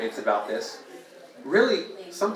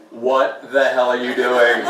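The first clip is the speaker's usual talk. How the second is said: slowed, drawn-out mock panic; hammed-up horror at commitment; 5 semitones lower, 3 dB louder, slower than usual. Guy panicking at being mated for life, drawn out. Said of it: "It's like".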